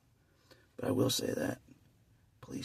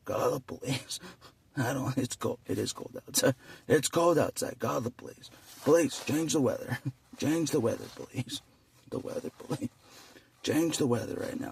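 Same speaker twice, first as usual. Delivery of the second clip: mock whiny caller. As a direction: whine at police to fix weather. Mock caller demanding weather fix.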